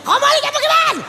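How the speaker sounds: high, loud screamed demand for the cards; full scream. Acted. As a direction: scream it with everything you have. Mother demands cards back.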